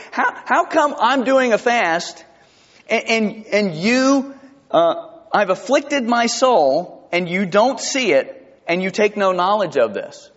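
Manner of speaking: lightly voiced teen grievance, starting high; complaining teenager. Preacher paraphrases the hypocrite's complaint to God, mock teenager. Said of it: "That sounds like a teenager".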